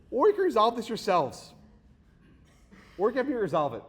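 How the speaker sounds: retold administrator, loud. Administrator addressing the protesting crowd.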